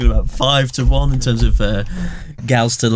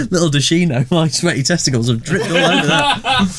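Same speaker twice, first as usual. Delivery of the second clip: laughing while talking; 3 semitones higher than usual. Real, not acted. Laughing through the line.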